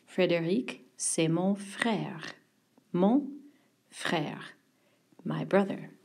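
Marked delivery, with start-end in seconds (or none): 1.0-2.3 c'est mon frère slowly, mon with a clear nasal; careful French. Shown as a demonstration. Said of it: "Watch your accent E there". 2.9-4.5 Mon frère, the frère almost whispered; slow model phrase for students; modelled French. Shown as a demonstration. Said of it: "Watch your accent E there".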